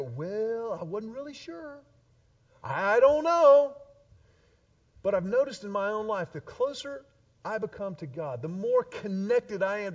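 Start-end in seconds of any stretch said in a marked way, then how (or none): 0.0-3.8 mock evasive shrug. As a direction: dodge the question with a put-on shrug. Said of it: "I can kinda go".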